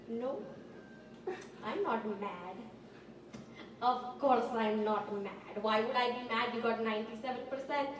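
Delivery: lightly voiced dad holding it in; dad denying anger. Dad claims he isn't mad.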